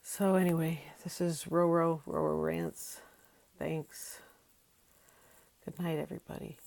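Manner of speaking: soft, hushed goodbye; sleepy whispered sign-off. Real, not acted. Tired vlogger says goodnight to viewers in a hush. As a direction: wind down quietly at dawn.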